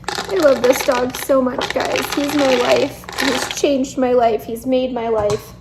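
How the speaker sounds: emotional, near tears. Real, not acted. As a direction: gush lovingly while holding back tears. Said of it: "I'm trying not to cry".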